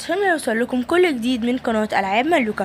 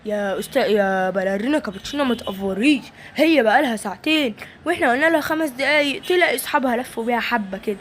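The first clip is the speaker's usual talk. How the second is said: lower, soothing man's voice; low calming father; 3 semitones lower than usual. Acted. Father calming the worried mother, low and soothing. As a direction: settle her down, unhurried.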